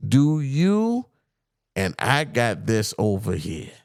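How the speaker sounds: slow, measured read-out of a tough retort; reading a statement aloud. Acted. Podcaster quoting a comedian's tough retort to co-host, slow deliberate read-out. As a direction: read it out slowly, line by line.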